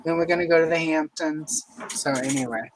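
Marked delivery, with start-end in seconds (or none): 0.0-1.6 put-on Long Islander; hammed-up New York "Lawn Guyland" talk; New York accent. Shown as a demonstration. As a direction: talk like a New Yorker heading out. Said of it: "the New York accent".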